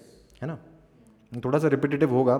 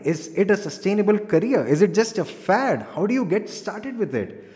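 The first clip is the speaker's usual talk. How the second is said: lively, raised-pitch presenter read; energetic; 3 semitones higher than usual. Shown as a demonstration. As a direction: sell it with enthusiasm. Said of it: "energetically बोल सकते हैं।".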